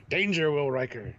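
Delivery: Lost in Space robot alarm. Acted. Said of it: "In best robot voice".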